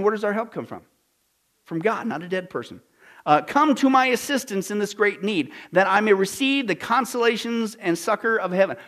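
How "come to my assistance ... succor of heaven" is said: lightly declaimed, emphatic recital; declaimed prayer reading. Acted. Preacher quoting a plea for assistance, lightly declaimed. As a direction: read it out as a formal plea.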